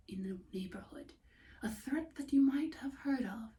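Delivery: a creepy bedtime whisper about the wolf; soft ominous storyteller hush; hushed spooky narration. A narrator's reading. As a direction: whisper it like a secret threat.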